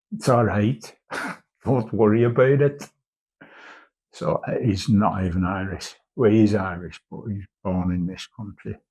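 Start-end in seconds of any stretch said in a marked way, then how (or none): 0.1-2.9 lightly put-on Belfast accent; a hint of Belfast accent. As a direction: imitate a mate's Belfast accent. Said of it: "That's my wee fucking Belfast accent".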